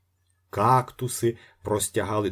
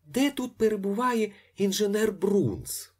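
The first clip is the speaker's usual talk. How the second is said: pleasant voice; 12 semitones higher than usual. A narrator's reading. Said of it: "запитав приємним голосом".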